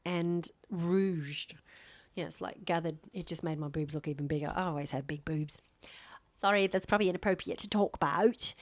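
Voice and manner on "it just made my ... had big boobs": softer, half-whispered aside; confiding aside. Real, not acted. Vlogger admitting something probably inappropriate, hushed aside. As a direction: drop it under your breath.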